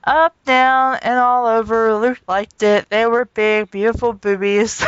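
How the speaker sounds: deadpan, no emotion; flat businesslike reading. Real, not acted. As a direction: read it like a dull report. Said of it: "you're very flat, very business".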